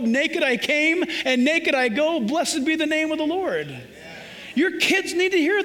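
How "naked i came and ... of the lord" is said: solemn quote. Acted. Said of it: "say with Job".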